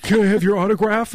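high-pitched pretend fan plea; mock starstruck. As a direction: act out a gushing autograph seeker. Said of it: "And I'm like".

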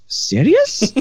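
put-on high falling "Serious?" in an Egyptian accent; deadpan mimic of the boss. Boss told three orders, replies in Egyptian accent. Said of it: "He goes".

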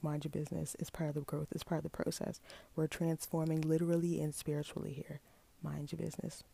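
hushed, matter-of-fact self-defence; understated retort. Retold or imitated. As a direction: brush off nosy people quietly. Acted retort to nosy people.

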